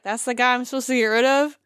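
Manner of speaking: retold disbelief. Player retelling his reaction to his target, incredulous.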